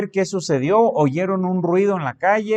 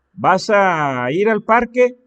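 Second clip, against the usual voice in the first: mock friendly question, louder; asking a question; 5 semitones higher, 6 dB louder, slower than usual. Preacher acting out a friend's question, louder. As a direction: ask someone if they're going to the park.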